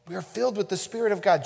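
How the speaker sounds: fast, falling restatement; quick repeat. Real, not acted. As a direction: rattle off We are filled with the Spirit of God.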